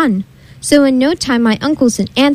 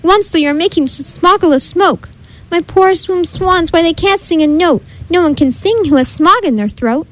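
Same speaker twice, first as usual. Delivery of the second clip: querulous croak; 5 semitones higher than usual. Acted. The Lorax complains to the Munster about smog, querulous and high. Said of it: "he cried with a querulous croak".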